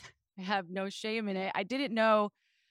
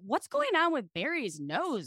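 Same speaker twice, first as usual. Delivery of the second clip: put-on kid voice; 4 semitones higher than usual. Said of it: "Is this your kid voice?".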